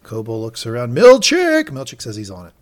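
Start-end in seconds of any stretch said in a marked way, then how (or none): 1.0-1.7 high, loud call across the room; calling out sharply. Retold or imitated. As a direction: summon him with a sharp shout. Boss calling for her assistant.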